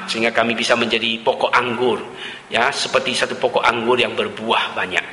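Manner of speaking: earnest, steady prayer voice; closing prayer. Acted. Preacher leads the congregation in prayer, earnest. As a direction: pray for the church, sincere and measured.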